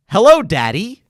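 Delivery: lightly voiced phone robot greeting. Phone robot greets the caller, in a hint of robot voice. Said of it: "Literally a robot voice".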